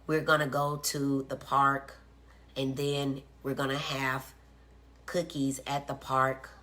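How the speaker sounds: flat, even monotone with no pitch range; monotone little-professor delivery; robotic monotone. Shown as a demonstration. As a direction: say it like a robot, no inflection at all. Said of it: "there's no inflection there".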